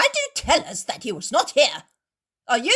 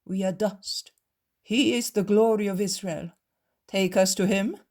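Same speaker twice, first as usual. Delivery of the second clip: fawning; 4 semitones higher, 6 dB louder than usual. A narrator's reading. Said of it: "change tone and become like creeping pups".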